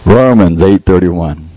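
slow, deliberate reference. Shown as a demonstration. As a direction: spell it out slowly for the note-taker. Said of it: "She told me to say it slower".

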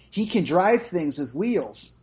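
slow, deadpan delivery of the line; drawn-out, matter-of-fact movie quote; quoted slowly. Retold or imitated. Friend recounting a movie line, slow and deadpan. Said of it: "he says it like that in the movie".

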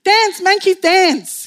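imitating an Australian official; Australian accent. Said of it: "How do you do Australian accent?".

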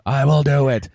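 eager groveling fan voice; fawning fanboy. Retold or imitated. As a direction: grovel to your hero. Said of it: "I was just like".

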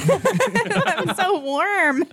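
slow, drawn-out movie quote; Mean Girls quote. Retold or imitated. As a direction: stretch it like the movie line. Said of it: "I just wanna quote Mean Girls".

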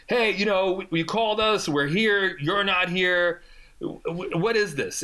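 high, mildly mocking cop voice. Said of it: "They're like".

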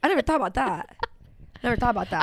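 laughing while talking. Real, not acted. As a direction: let a laugh through the words. Laughing at joke.

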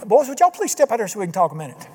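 fast, suddenly polite king; a king now sweet-talking the boys; mock courteous, hurried invite; changed attitude. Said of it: "he changed his attitude".

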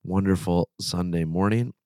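rough voice from a sore throat; gravelly voice. Real, not acted. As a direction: speak through a sore, raspy throat. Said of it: "sorry for the gravelly sort of voice".

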